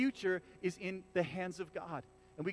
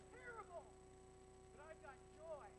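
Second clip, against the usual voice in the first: fake cheerfulness; 10 semitones higher, 25 dB quieter than usual. Mock cheerful fake-joy answer.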